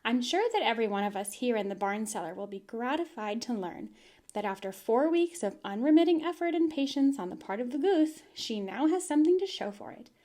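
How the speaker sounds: a hint of a grand little address; Charlotte's speech. Fern quotes Charlotte's speech, mildly formal and grand. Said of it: "She made a speech. She said".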